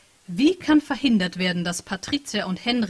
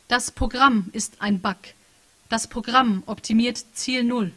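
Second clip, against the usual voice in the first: slow machine reply; 2 semitones higher, slower than usual. Acted. Machine text read out.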